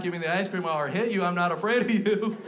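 put-on high, loud child threat; hammed-up bratty kid voice; defiant four-year-old. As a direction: demand it like a fearless little brat. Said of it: "this little four-year-old son of a bitch".

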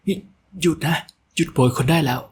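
shout to stop. A narrator's reading. Young mistress shouting at the men caning her maids. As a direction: order them to stop the caning at once. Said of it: "เสียงตะโกนของหู้หยินน้อย".

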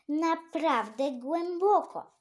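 naprawdę głęboko drawn out slow, high and loud; stressed slowly. A narrator's reading. Emphatic stress in reported speech.

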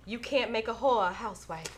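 put-on a light Southern Belle accent. Host reads Phaedra's quote in a faint Southern Belle accent. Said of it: "that was my Southern Belle accent".

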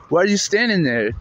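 high, exasperated demand; mock yell at an idle bystander; retold scream. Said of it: "I'm screaming at this old man".

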